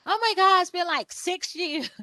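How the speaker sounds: high, loud oh my God; mock dismay. Client admitting years without a headshot, high mock dismay. Client realizes it's been long.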